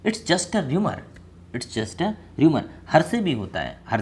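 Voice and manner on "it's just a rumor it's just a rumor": slow model sentence. Shown as a demonstration. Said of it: "तो क्या बोलेंगे अफवाह को".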